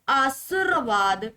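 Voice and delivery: आशीर्वाद drawn out slowly with a loose middle syllable; wrong variant. Shown as a demonstration. Teacher reads out answer options, slow wrong variant. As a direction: stretch आशीर्वाद slowly, pitch left up. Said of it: "आशीर्वाद नहीं".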